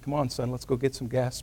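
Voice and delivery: imitating an unbothered, calm dad. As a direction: say it quietly, with no fuss. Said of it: "very calmly".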